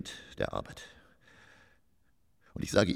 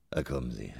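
whisper; 4 semitones lower, 3 dB quieter than usual. Acted. Coaxing stagehand to drink.

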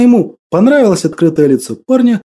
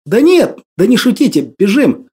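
urgent exclamation; 4 semitones higher than usual. Acted. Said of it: "воскликнул юноша".

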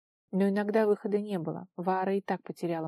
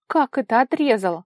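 loud, high, alarmed question; frightened cry; 4 semitones higher, 9 dB louder than usual. A narrator's reading. Vara cannot believe Gert cut it off, frightened. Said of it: "испуганно вскрикнула Ваара".

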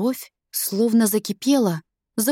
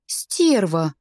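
breathed insult; 4 semitones lower than usual. Acted. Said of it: "выдохнула я".

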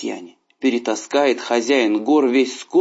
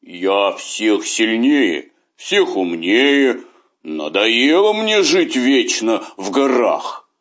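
slow, boastful beast voice; a big proud tiger bragging slowly; growling tiger voice; slower than usual. A narrator's reading. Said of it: "Раз тигр сказал себе". (медленный хвастливый голос тигра)

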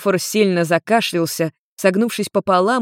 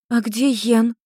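a touch of fear, asked higher; worried, slightly raised question; frightened question; 5 semitones higher than usual. A narrator's reading. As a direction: Maimi anxiously asking where Yen is. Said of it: "испуганно спросила Майми".

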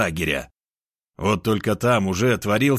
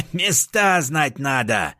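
gloating; 4 semitones higher, slower than usual. Acted. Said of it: "хохотал енот".

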